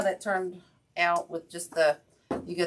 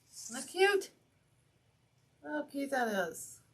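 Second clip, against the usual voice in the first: delighted gush; 9 semitones higher than usual. Real, not acted. Admiring her craft.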